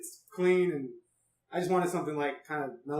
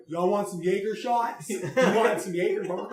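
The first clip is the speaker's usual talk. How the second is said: bartender impression; 3 semitones higher, 4 dB louder than usual. Bartender impression mocking the Roman bar, hawking Jaeger shots. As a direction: offer the shots like a brash bartender. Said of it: "Was that the good impression?".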